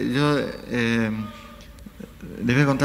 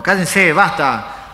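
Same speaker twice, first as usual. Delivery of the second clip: drawn-out mock yell, raised pitch; retold yell; 4 semitones higher, 4 dB louder, much slower than usual. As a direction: imitate a heckler yelling from the back. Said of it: "otro tipo de atrás gritó".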